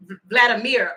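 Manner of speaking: Vladimir said as VLAD-uh-MEER; corrected pronunciation. Shown as a demonstration. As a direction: stumble on the V, then "Vladimir" ending like "meer". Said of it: "Okay, thank y'all".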